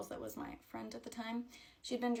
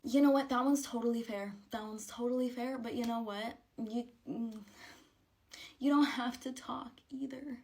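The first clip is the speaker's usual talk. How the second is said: much louder, exasperated venting; indignant outburst; 7 dB louder than usual. Real, not acted. Grieving girl venting about her awkward friends, loud and indignant. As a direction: let it burst out, fed up.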